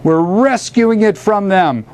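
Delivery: high, incantatory declamation; bellowed invocation. A narrator's reading. Poet calling the great spirits to the moon, bellowed. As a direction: declaim it skyward like a bard summoning spirits. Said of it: "he bellowed into the".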